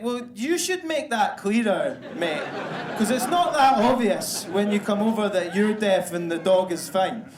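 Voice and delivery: mock anger. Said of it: "I got all angry".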